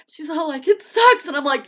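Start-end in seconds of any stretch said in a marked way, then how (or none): 0.7-1.3 mock whine. Daughter voiced complaining.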